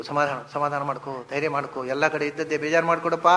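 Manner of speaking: soft, low murmur of condolence; lightly acted neighbour soothing a mourner; mock consoling. Acts neighbours consoling the bereaved.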